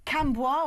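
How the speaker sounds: Cambois as cam-BWAH; French-style reading. Shown as a demonstration. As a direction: say Cambois with a French wah ending. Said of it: "pronounced Camus".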